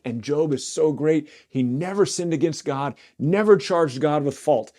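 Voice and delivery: mock the pious sermon voice; mocking preacher. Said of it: "they're like".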